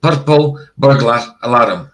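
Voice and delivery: "Purple burglar alarm" word by word, R's rolled. Shown as a demonstration. Scot repeating the demo for chat, rolled R's. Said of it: "That's how I would say it".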